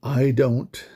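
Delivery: holding back tears, halting; emotional, voice catching between words; choked up. Real, not acted. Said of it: "it's emotional".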